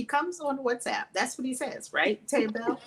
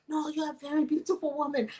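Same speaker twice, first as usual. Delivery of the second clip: higher mimicked Omani accent; 4 semitones higher, faster than usual. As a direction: flatter her in an imitated Omani accent. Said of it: "He's saying all this in his accent from Oman".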